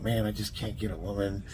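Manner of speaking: quiet, mopey complaint from a lonely guy; whiny guy. Retold or imitated. Guys online complaining, a soft mopey lament. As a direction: sigh it out like a guy who's given up. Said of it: "they talk about".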